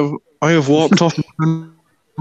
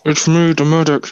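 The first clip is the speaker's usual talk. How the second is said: talking as if through a big bite of bread; words muffled by a barely open mouth; mouth-full sound. Real, not acted. Medic greeting the podcast with a sore mouth, mouth-full sound. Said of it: "sound like you are eating a very large slice of bread".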